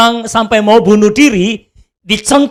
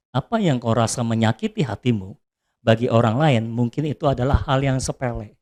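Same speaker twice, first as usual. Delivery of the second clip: gentle teaching voice; 9 semitones lower, 7 dB quieter than usual. Retold or imitated. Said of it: "Roh Kudus ngajar saya gini".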